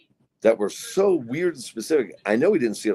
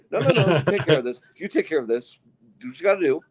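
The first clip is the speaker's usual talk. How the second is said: nervous reassurance; 5 semitones higher, faster than usual. Retold or imitated. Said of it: "she must have heard something in my voice".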